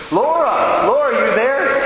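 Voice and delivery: high, loud call of her name; urgent call. Retold or imitated. Priest rousing a dying woman, high loud call. Shaking her awake, calling.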